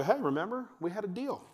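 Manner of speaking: high, lightly coaxing dad; acted patient parent; gentle reminder.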